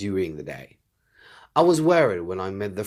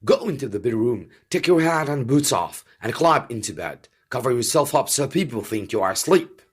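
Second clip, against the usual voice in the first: hurried, raised urgent instructions; 4 semitones higher, 4 dB louder than usual. Acted. Zapt hurries the king to hide in bed. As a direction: rush him into bed before the door opens.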